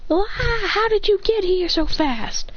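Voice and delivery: acted high-pitched yell; mild yell. A narrator's reading. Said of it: "Chloe yells".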